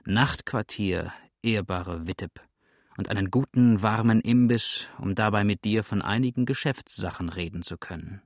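unruffled, leisurely request; imperturbable calm. Acted. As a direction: state your wishes with easy composure. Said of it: "mit unzerstörbarem Gleichmut".

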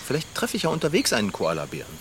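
hushed, fast whisper to herself; whispered aside. Acted. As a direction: whisper it quickly as you go. Aside to herself while leaving. (leise geflüstert)

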